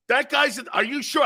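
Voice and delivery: high-pitched imitation of doubt; disbelieving grandfather. Grandfather questioning grandson about Franco, incredulous. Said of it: "He goes like this. He goes".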